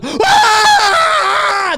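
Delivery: loud high excited yell; fan yell. Retold or imitated. Young guys at a Marvel screening, loud excited yell. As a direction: holler like a hyped fan. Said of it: "people are going".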